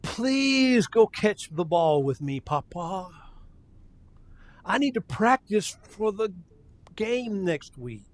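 slow, drawn-out plea; pleading little boy. Acted. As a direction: lightly imitate a boy begging his grandpa. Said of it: "a little boy comes up to you and pleadingly says".

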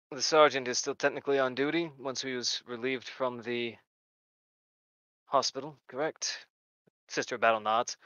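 hushed questions to the sister; quiet priest voice. Acted. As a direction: priest quietly confirming facts. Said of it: "So he looks at it and goes".

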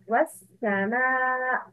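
"was sama" joined, the hamza dropped after "wa"; silent hamza. Shown as a demonstration. Teacher contrasts a hamza wasl example, hamza silent in "was sama". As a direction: slowly link "wa" straight onto the "s" of "sama". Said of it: "it's a hamza wasl".

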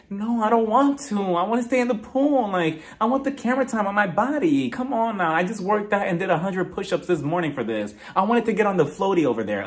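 mock-whiny gym bro refusing to get out; whiny Sergio. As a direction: whine like a vain guy who won't budge. Sergio whining about leaving pool.

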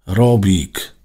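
yelling. A narrator's reading. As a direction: yell out for a missing companion. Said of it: "wrzasnął Alek".

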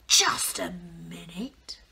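slow whispered sly wolf. Acted. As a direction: drawl it slowly, suspicious wolf. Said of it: "said the wolf".

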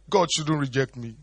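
high, pleading Saul; begging Saul. Retold or imitated. Saul begging God not to reject him, high pleading. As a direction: beg like a rejected king.

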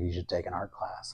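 soft whispered nudge; friend's suggestion as a hushed aside. Retold or imitated. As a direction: whisper it as gentle advice.

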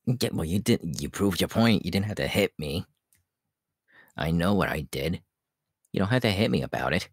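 annoyed complaint. Real, not acted. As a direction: protest being hit. Complaining after being hit.

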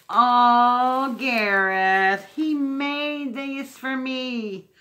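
loud, high, touched "oh"; a sudden delighted cry; moved surprise. Real, not acted. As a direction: burst out at the surprise. Recognises ornaments friend made.

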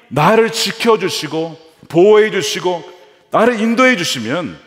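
high, loud, pleading cry to God; Jacob's pleading prayer. Acted. Jacob pleads with God, having nothing: loud pleading prayer. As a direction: beg God with nothing left, voice straining high.

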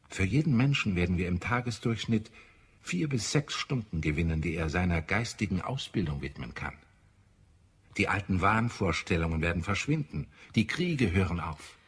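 lauter, höher, mitreißend; begeistert. Acted. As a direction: steigere dich in die Vision hinein. Schwärmt begeistert von Zukunft. (begeisterte Zukunftsvision, lauter und höher)

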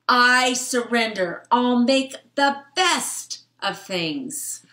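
hammed-up surrender; resigned fly. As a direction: give up grandly like a little bug. Fly accepts its fate.

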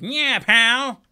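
high, very loud detective holler; yell. Acted. Detective yelling at a suspect, mock yell. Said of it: "He'd just yell at them".

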